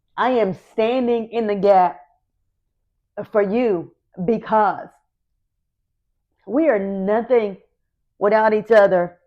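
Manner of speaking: overcome with emotion, halting, voice breaking mid-phrase. Speaker comforts someone going through something they've been through, emotional. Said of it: "I get so emotional".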